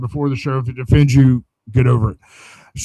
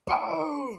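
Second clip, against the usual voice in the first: sound-effect "boom" for a car crash; imitated crash boom; 14 semitones higher, 11 dB quieter than usual. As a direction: mimic the impact with a soft, high boom.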